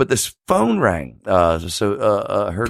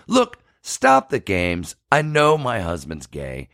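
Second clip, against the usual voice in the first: slow, lower, deadpan; knowing wife; 4 semitones lower, slower than usual. Retold or imitated. Wife telling him to drop the act, slow. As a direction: lay it out coldly. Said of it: "And she goes".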